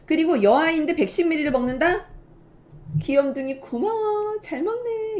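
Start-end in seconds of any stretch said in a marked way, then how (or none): 3.0-5.1 put-on praising baby. Shown as a demonstration. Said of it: "이렇게 해주셔야 돼요".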